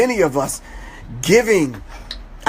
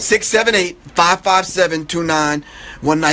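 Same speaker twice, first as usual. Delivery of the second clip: phone number slowed down, digit group by digit group. Shown as a demonstration. Guest repeating his number slowly so the caller can get it. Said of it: "let me say it slow so he can get it".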